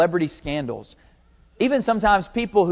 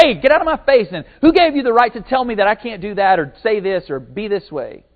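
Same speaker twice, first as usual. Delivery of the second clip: mock indignation, higher and louder at first; acted defensive outburst; 4 semitones higher, 4 dB louder than usual. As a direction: push back as if someone got on your case. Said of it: "Usually we get defensive".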